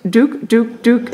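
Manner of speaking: high little dook dook sounds; ferret dooking. Shown as a demonstration. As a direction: chirp it like a ferret. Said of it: "hopefully I'm doing that correctly too".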